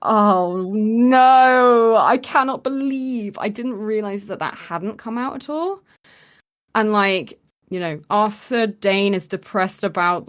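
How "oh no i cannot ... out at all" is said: higher, louder oh no; horrified at my own blunder; dismayed realisation. Retold or imitated. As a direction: pitch leaps on the final all. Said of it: "and I was like".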